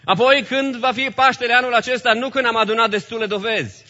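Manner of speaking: high, loud pulpit voice; forceful preaching. Real, not acted. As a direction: press the question and answer on the congregation.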